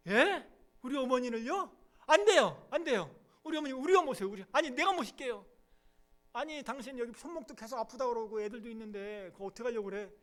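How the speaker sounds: loud, high, pleading cries; alarmed protest. Acted. Daughter-in-law refusing to send mother-in-law away. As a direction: refuse outright, almost panicking.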